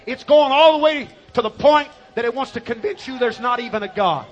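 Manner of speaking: preaching at full force. Real, not acted. Preaching climax louder.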